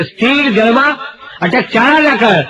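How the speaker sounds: high, slow, drawn-out recital; declaiming poem. Pretend. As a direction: recite it grandly, stretching each word. Recites boy's poem, second take. (ઊંચા ધીમા અવાજે કવિતા પઠન)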